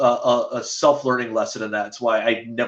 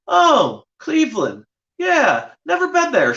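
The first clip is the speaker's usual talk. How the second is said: higher mock Couture voice; 12 semitones higher, slower than usual. Couture's reply, acted out.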